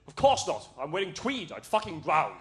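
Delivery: lightly voiced English gent's dismissal; a hint of mock English dad, opening loud; southern English dad. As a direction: brush it off like a tweedy English father. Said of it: "the most southern English man".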